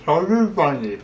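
muffled by a big mouthful; cheeks stuffed full. Real, not acted. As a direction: say it round a marshmallow. Big pumpkin marshmallow in mouth.

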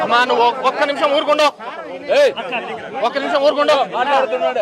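loud, high call over the crowd. Real, not acted. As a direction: shout the crowd down to restore order. Official calming a shouting crowd.

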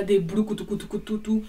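nonsense drum syllables mimicking music; imitated drum music. Storyteller mimics their dance music, rapid imitated beat. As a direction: mouth out a rough drum beat. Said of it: "commencé à faire leur musique là".

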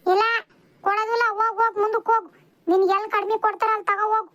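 quick, brusque send-off; hurried, impatient shooing away; brusque dismissal. Acted. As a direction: rattle off the refusal to be rid of her. First refusal, customer mishears.

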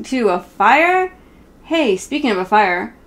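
a gentle read-aloud, half sung in places; reading to children. Acted. Reading a Sesame Street book to her viewers, sing-song read-aloud.

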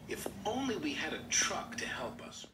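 wistful sigh. A narrator's reading. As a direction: sigh it as a hint. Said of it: "Rusty sighed".

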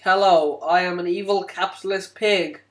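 put-on American accent, stiffly announced; typical American accent. Playing capitalist visitor at the border, American accent. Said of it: "a typical American accent".

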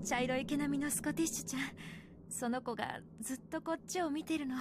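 soft, tender persuading; gentle coaxing. Acted. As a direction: coax her out softly. Mother coaxing daughter gently.

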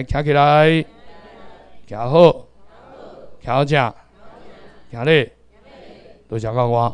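measured classroom commands, spaced out; read-along drill. Shown as a demonstration. Teacher leading the class in reading together, read-along drill. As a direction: model each phrase, leaving gaps to repeat. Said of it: "来，咱斗阵念".

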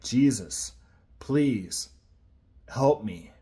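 "Jesus, please help me" pleaded from the heart, with pauses between the words; each word slow and earnest: "Jesus", a pause, "please", a pause, "help me"; sincere plea. Shown as a demonstration. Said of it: "with all of my heart and sincerity".

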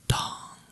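a single ringing "dong"; imitated clock chime. A narrator's reading. Clock striking midnight at the ball, imitated chime. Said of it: "rung the clock".

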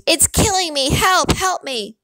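high, desperate plea; frantic cry drawing out into a plea; panicked scream. A narrator's reading. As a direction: beg for rescue in a high voice. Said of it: "the other man screamed".

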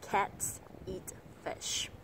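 CATS, EAT, FISH each stressed, evenly spaced; three even beats. Shown as a demonstration. English teacher showing learners the beat, evenly stressed words. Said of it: "đọc với thời gian gần như bằng nhau".

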